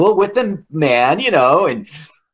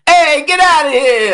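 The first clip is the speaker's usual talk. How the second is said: much higher, louder gruff yell; shooing shout; 13 semitones higher, 5 dB louder than usual. Retold or imitated. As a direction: chase them off loudly. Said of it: "He was like".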